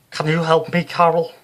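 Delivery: loud, high, brassy Liverpool medium; Psychic Sue voice. Acted. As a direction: play her as a brash Scouse showwoman. Sue appeals to Carol.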